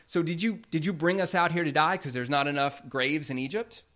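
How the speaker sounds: sarcastic. Retold or imitated. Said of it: "which are sarcastic words".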